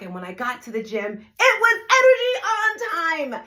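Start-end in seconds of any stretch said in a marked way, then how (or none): 1.4-3.4 hyped gym energy. Retold or imitated. Fitness instructor telling the audience about her early gym class, pumped-up and loud. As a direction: burst it out high and loud like a pumped-up fitness coach.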